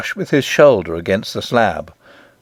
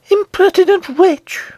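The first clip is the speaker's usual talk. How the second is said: very high, slow, scornful queen; high-pitched withering disdain; utmost scorn; 3 dB louder than usual. A narrator's reading. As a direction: draw out the insult with haughty contempt. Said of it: "with the utmost scorn in her voice".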